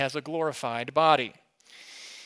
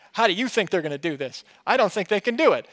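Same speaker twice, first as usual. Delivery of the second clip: louder, animated pestering of a spouse; agitated disbelief; 4 semitones higher, 5 dB louder, faster than usual. Retold or imitated. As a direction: blurt out your doubt, pitch climbing. Acting out pestering wife during movie.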